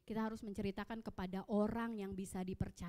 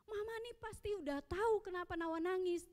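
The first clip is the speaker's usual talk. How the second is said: put-on sulky child; 9 semitones higher than usual. Anak kesal menjawab ibu.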